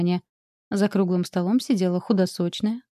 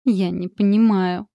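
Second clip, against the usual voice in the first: slow, louder groaning complaint; moaning; 5 dB louder, slower than usual. A narrator's reading. Oksana moaning to the count, slow and louder. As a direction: drag it out like a weary moan. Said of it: "застонала Оксана".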